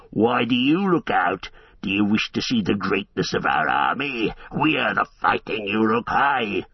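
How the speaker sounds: a hint of gloating orc voice; boasting orcs. Uruk-hai boast their army to Aragorn, gloating. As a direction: brag with a sneer.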